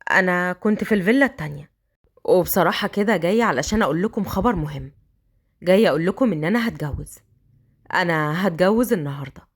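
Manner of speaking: put-on a man coaxing the girl upstairs.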